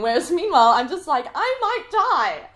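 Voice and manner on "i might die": high, loud, slow panic; mock terror. Her inner thought in sinking sand, hammed-up fear. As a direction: wail it in comic dread. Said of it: "smiling there in utter fear".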